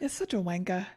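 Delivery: put-on British accent slipping into Australian; botched British accent. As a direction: attempt British, drift towards Australian. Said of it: "did I go Australian?".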